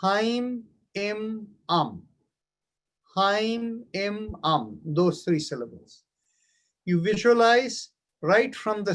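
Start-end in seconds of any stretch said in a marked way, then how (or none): 0.0-2.0 slow intoned Haim, im, am with a drop on am; mantra syllables. Shown as a demonstration. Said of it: "The mantra is three syllables". 3.2-4.8 slow intoned Haim, im, am with a drop on am; mantra syllables. Shown as a demonstration. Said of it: "The mantra is three syllables".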